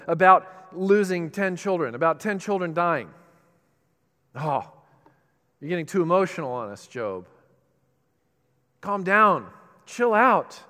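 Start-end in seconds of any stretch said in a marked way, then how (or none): 4.3-10.6 nervous scolding friends. Retold or imitated. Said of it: "they got all nervous".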